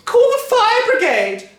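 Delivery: high, loud, slow alarm; frantic cry. A narrator's reading. Wife crying out for the fire brigade, loud and high. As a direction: cry out for help. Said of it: "cried Missus Cranky".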